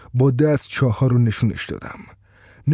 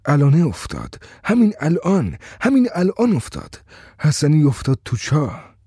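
shouting; 2 semitones higher than usual. Acted. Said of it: "و من داد زدم".

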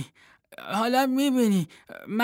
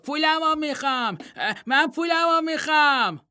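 put-on furious childish shout; 11 semitones higher than usual. Vardilo screaming at the statue in a tearful rage. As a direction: scream it, near tears with rage. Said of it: "واردیلو فریاد زد".

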